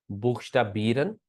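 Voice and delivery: बीरन with a clear tapped R, drawn out slowly; tongue-tip R in बीरन; plain tapped R. Shown as a demonstration. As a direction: slowly say बीरन with a Hindi-style r, tune rising. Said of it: "दो तीन तरह से इसकी sound".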